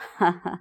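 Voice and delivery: short mock sobs; brief pretend crying; acted sobbing. A narrator's reading. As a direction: sob briefly in character. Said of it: "فضلت تعيط".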